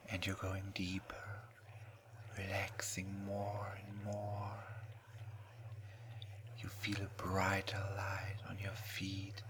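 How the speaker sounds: right in your ear. Acted. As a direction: whisper slowly, hypnotic and soothing. Hypnosis induction in whisper.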